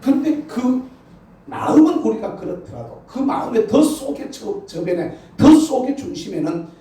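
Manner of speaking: high, loud preaching climax; full-force preaching. Acted. The pastor rousing the congregation to a blessing, preaching loud.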